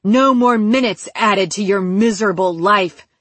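menacing, emphatic villain; angry threat. Acted. Captor reaching for the knife to kill his captive, menacing anger. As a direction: threaten it with force on each stressed word.

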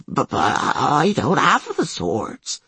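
slow, breathless stammer; having a heart attack. Acted. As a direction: gasp it out, clutching chest. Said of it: "struggling to catch his breath".

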